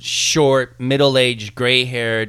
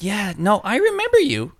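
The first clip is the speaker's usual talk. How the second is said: high sing-song; 8 semitones higher than usual. Retold or imitated. Humoring the woman.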